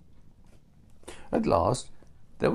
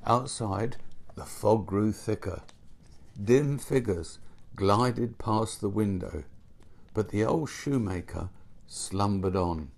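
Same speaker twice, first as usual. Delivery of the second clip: ordinary delivery, nothing marked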